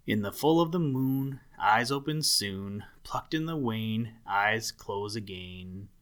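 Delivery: measured recital of a saying; quoting a rhyme. A narrator's reading. Muskrat doctor quoting remedy rule, recited. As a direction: recite it as a rule in verse, slowing at the end. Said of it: "he quoted".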